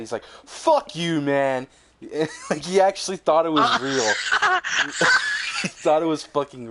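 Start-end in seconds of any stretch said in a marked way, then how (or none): 0.4-1.7 mock-mad, louder and higher; retold angry outburst. Moviegoer to the prankster who spoiled it, mock angry. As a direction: imitate a furious moviegoer snapping back. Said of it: "He was so fucking mad".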